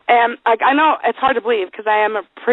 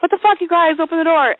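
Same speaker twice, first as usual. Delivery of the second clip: mock panicked plea; 6 semitones higher than usual. Retold plea from locked room.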